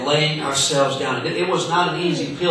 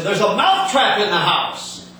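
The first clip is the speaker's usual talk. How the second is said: the mouse warning the hog; lisping mouse alarm; 6 semitones higher than usual. Acted. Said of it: "and he said".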